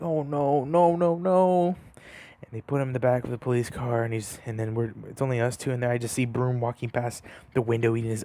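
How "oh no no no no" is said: imitating a panicked crying wail, rising higher; mock sobbing no no no, climbing in pitch; retold crying. Friend imitates Alex crying in the cop car, mock wail. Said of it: "I remember seeing Alex crying".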